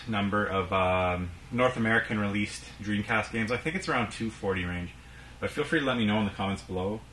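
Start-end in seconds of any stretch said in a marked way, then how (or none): 5.4-7.0 breathless, rushing the words; out of breath. Real, not acted. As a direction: talk while short of breath. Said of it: "I'm out of breath".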